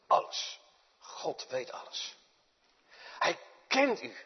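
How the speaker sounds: slow whispered reverence; slow hushed whisper of awe. Acted. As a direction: breathe it out in a whisper. Preacher whispers God's omniscience.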